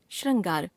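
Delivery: श्रृंगार as "shrangaar", with a; wrong pronunciation. Shown as a demonstration. Teacher showing another error, श्रृंगार as "shrangaar". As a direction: put अ after shr in श्रृंगार. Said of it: "अशुद्ध".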